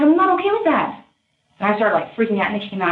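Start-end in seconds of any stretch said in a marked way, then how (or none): 0.0-1.0 retold firm objection. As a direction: push back up in the high register. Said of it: "And I'm like".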